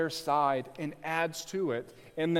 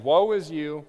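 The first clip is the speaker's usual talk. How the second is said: louder cry, Woe pushed hard; 5 dB louder than usual. Retold or imitated. Preacher voicing nations' cry against oppressors, louder. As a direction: call Woe is you out as a curse. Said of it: "They're saying".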